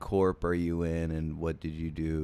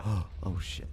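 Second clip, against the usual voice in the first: startled. Retold or imitated. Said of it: "I looked at the time and went".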